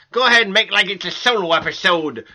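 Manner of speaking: playful Jamaican accent impression; mock Jamaican accent. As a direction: tease him with a fake Jamaican accent. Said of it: "I do not talk like that".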